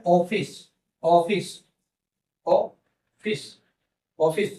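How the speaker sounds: "ऑफिस" with a clear opening "o"; o-sound demo. Shown as a demonstration. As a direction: model "ऑफिस" slowly for pupils, vowel first. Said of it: "अब ये ओ वाला sound है".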